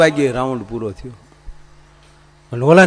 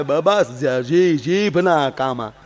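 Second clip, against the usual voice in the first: stammering doctor; 5 dB quieter, much slower than usual. Retold or imitated. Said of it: "મને કે".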